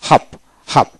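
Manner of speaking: হাফ with open A and silent R; British dropped R. Shown as a demonstration. Teacher shows British form to learners, হাফ without R. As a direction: drop the R in হাফ. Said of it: "ব্রিটিশে".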